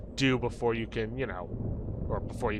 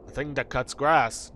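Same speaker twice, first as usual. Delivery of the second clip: slow, puzzled echo as a knight; baffled knight; 4 dB louder, slower than usual. Acted. Knight echoing the player, slow and baffled. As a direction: repeat it slowly, as if unheard of.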